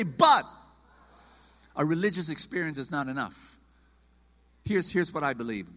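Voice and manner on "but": congregation echo. Shown as a demonstration. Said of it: "everybody say".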